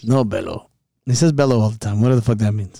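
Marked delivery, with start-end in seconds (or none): 0.0-0.7 lightly put-on accent, pitched lower; a hint of a movie gangster, lower; Scarface. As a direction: do a low gangster-film accent. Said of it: "You gotta sound like, uh, Scarface".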